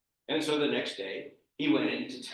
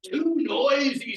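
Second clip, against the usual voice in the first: loud, slow, higher complaint; exasperated complaint; 9 semitones higher, 7 dB louder, slower than usual. Acted. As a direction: drag it out, at wit's end. Peter complains again.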